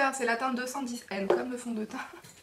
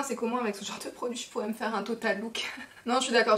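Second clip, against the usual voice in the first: usual speaking voice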